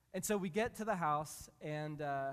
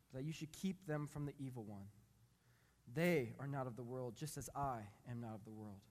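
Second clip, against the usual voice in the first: measured, solemn Bible reading from the pulpit; scripture reading. Acted. Pastor reading John seventeen to the congregation, solemn reading.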